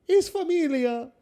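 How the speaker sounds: same mock Italian, insisted; Italian accent. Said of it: "that Italian accent".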